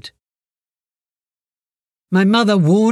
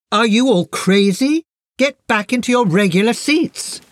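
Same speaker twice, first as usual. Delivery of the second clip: higher-pitched, mildly raised teacher's voice; retold loud scolding; 4 semitones higher than usual. Teacher scolds class about the back row, mild loud scolding. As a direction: imitate an indignant teacher without really shouting. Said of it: "She frowned and said very loudly".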